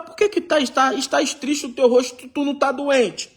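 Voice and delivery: a king asking, pitched high; worried king. Acted. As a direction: voice the king's sudden concern. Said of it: "E fala".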